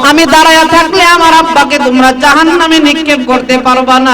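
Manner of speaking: loud defiant call to the angels; daughter calling out. Acted. Daughter blocks the angels from her father, loud defiant call. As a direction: stand firm and shout the warning. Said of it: "মেয়েটা ডাক দিয়ে বলতেছেন".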